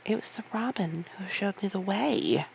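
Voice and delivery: stubborn, level insistence; girl insisting stubbornly; obstinate protest. Acted. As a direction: dig in your heels. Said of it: "she protested obstinately".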